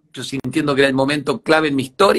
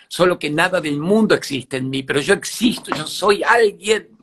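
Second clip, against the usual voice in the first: last-gasp plea; 3 semitones higher than usual. Retold or imitated. Pupil insisting to the teacher that he exists, desperate and building. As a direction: insist with your last breath, rising to a peak. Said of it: "le dije en el último aliento".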